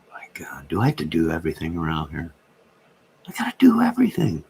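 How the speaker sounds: whispered grumbling, rising to a forced whispered outburst; fed-up whispered complaint; exasperated whisper. Real, not acted. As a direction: grumble it under your breath, then burst. Mock exasperated whisper rant.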